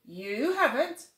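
put-on bush baby voice.

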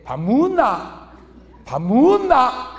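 a curt husband asking without warmth; gruff to the wife. Retold or imitated. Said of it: "이렇게 물어봐".

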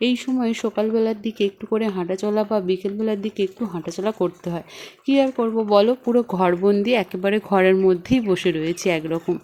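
talking with a toothbrush in mouth; speaking mid-brush; while brushing teeth. Real, not acted. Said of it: "আমি ঝটপট করে এখানে ব্রাশটা করে নিচ্ছি".

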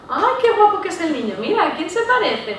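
put-on high, gushing baby praise; delighted cooing compliment; cooing over a baby. Shown as a demonstration. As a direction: coo at a newborn. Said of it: "Es casi obligatorio hacer un cumplido al bebé".

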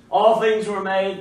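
"All things" hit loud and firm; emphatic. Retold or imitated. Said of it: "stating most emphatically".

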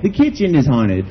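slow, deliberately flat attempt at a Hispanic accent; a bad try at an accent, barely any accent; failed Hispanic accent. Comic showing he can't do the accent, barely accented. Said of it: "I can't do an accent".

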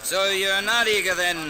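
ordinary talk, nothing marked

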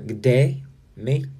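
"good day" as "g'day" with a rising end; reduced-vowel pronunciation. Shown as a demonstration. Practising what viewers taught, "good day" shortened to "g'day". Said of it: "you guys say good day".

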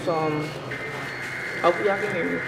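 talking between bites; chewing while talking. Real, not acted. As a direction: mouth full of food. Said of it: "I'm talking while I eat".

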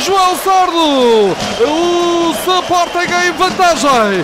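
slow, stretched, high scorer call; goal call shout. Real, not acted. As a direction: shout the scorer's name, drawn out.

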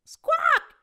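high screechy parrot cry; parrot squawk. Acted. Parrot squawks at the captain, high screech. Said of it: "says the parrot".

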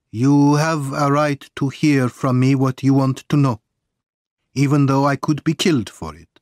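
lightly voiced Italian exile, solemn and deliberate; measured, earnest character voice; a hint of a troubled man granting a debt; Pesca, grave. Narrator voices Pesca's solemn confession.

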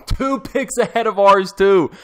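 high, slow, loud lament; anguished exclaim. Real, not acted. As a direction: moan it out in disbelief. Lamenting the lost player.

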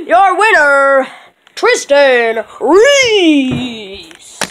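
slow drawn-out winner call; ring announcer. Pretend. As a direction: stretch the name like a ring announcer.

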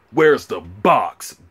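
each word drawn out slowly; slow repeated demand. Retold or imitated. Man questioning his girlfriend about the shoebox, slow insistent demand. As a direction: stretch out BOX as a demand.

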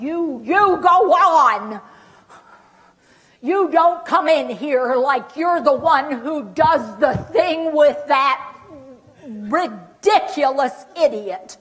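slow, drawn-out indignant scolding; angry person. Acted. Acting person with dementia telling caregiver off, angry. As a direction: lash out with each word stretched. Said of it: "they look angry, they are angry".

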